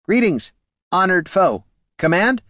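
high, stiff construct voice; golem voice. Acted. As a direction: speak like a clockwork golem. Golem speaks.

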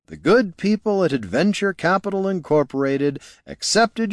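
a hint of a mercenary reading terms; lightly voiced businesslike warrior. Warrior lecturing the farmer on his contract, patiently.

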